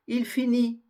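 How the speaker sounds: finit ending on the "i" vowel; silent final T. Shown as a demonstration. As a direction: say Il finit clearly, no T. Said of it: "on ne le prononce pas".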